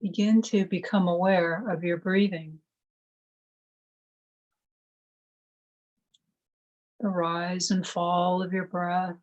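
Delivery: calm, measured meditation voice with long pauses; guided meditation. Acted. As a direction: gently guide them into stillness, one phrase at a time.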